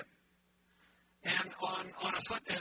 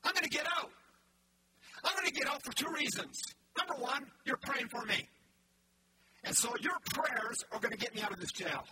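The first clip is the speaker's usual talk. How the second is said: preaching Paul's words; 3 semitones higher than usual. Acted. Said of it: "He says".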